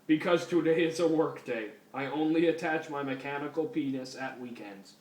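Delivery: lightly voiced robot cop, even pitch; RoboCop. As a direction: do a bad stiff robot officer. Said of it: "That's the worst fucking RoboCop voice ever".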